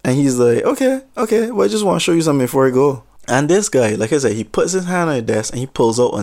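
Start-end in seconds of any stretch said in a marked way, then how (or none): 0.7-3.0 high okay then fast; sudden high okay. Retold or imitated. Jealous man turning fast and chirpy before the knife. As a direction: switch to eerily cheery and quick.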